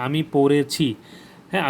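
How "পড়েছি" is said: "পড়েছি" with the এ sounded clearly. Shown as a demonstration. Teacher showing the perfect-tense sound, clear এ in "পড়েছি". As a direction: bring out the এ in "পড়েছি". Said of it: "এ উচ্চারণ দেখা যাচ্ছে".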